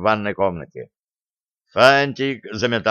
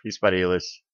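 plain reading voice

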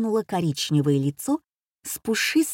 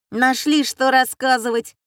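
a higher, louder scornful jab; indignant outburst; 5 semitones higher, 5 dB louder than usual. Acted. Schoolboy jumps up scoffing at the boring story, higher and louder. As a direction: scoff as if jumping up. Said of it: "так и подпрыгнул гимназист".

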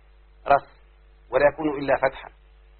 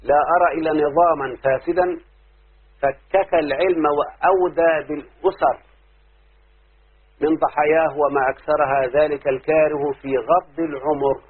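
slow, louder poetic recitation; reciting Shawqi's verse; 3 dB louder, slower than usual. Shown as a demonstration. Teacher reciting Shawqi's poem to students, slow and declaiming. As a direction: declaim each word slowly. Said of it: "اسمع كده قول شوقي".

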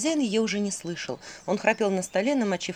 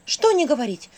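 worried; 7 semitones higher, 4 dB louder than usual. Acted. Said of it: "заволновалась Василиса".

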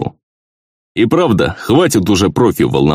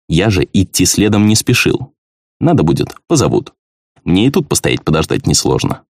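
ordinary delivery, nothing marked

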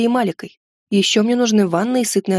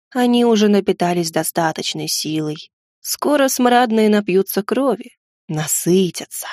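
hoarse gargoyle. Acted. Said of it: "Хрипло выдавила горгулья".

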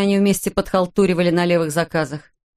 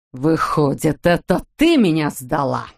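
mild mock yell breaking toward a shriek; husband yells at his wife, lightly acted; 3 semitones lower, slower than usual. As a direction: accuse her, voice cracking. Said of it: "заорал Саймон, срываясь на визг".

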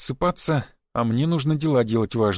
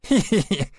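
raised «хе-хе-хе» cackle; mock laugh; 5 semitones higher than usual. Conductor laughing at the flirt, higher cackle. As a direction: laugh right at him. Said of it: "засмеялась проводница".

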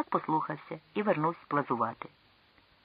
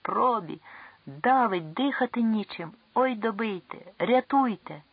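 higher, panicked pleading cries; desperate cries; 6 semitones higher than usual. Acted. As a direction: beg for rescue in despair. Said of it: "останній розпучливий вигук".

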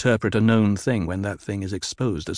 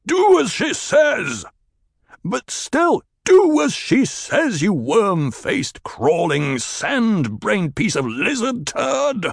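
higher, louder, slow drawn-out insults; furious roar; 10 semitones higher, 3 dB louder than usual. Acted. Chieftain roars insults at the man with the weapon. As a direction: bellow the insults at him. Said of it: "Stilgar roared".

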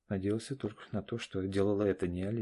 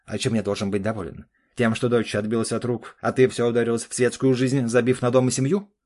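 гневный упрёк; 2 semitones higher, 9 dB louder than usual. Acted. Муж ругает жену.

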